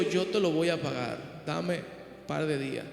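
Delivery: soft, slowed imitated plea; mild mock plea, quiet and slow; pleading. Debtor begs his fellow servant.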